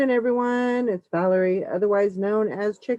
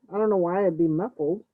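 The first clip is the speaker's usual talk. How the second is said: muffled, as through a wall; faster than usual. Real, not acted. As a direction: voice sounding dampened, far off. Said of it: "To me, it sounds muffled".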